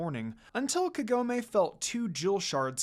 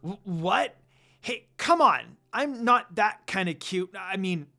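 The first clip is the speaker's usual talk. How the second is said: flustered, louder protest, cracking on come on; flustered embarrassment; 5 dB louder than usual. A narrator's reading. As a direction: brush it off, embarrassed and caught out. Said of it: "said in embarrassment".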